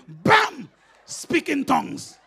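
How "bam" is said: mock yell. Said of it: "she hit my brother on the head and yelling".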